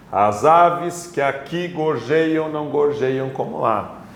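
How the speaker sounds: "que aqui" run together in one syllable; measured verse reading with "que aqui" joined; elision demonstration. Shown as a demonstration. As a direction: link "que" straight into "aqui" while scanning the verse. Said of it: "Dá pra fazer alguma elisão".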